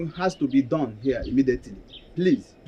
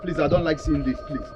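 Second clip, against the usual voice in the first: softer, pleading for life; frightened begging; 4 dB quieter than usual. Acted. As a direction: beg the gunman to calm down. Victim begging not to be killed.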